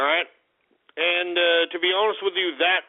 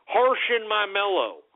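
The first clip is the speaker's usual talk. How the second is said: mock hipster phrase; 4 semitones higher than usual. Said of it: "what are these hipsters saying now?".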